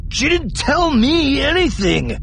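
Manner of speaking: high, loud, desperate whine; frightened, pleading wail; tearful panic. Acted. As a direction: protest helplessly on the edge of tears. Japet protests to his captor.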